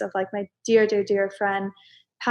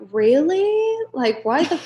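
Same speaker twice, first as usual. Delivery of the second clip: exasperated; 8 semitones higher, 3 dB louder, slower than usual. Retold or imitated. Exasperated inner voice quote.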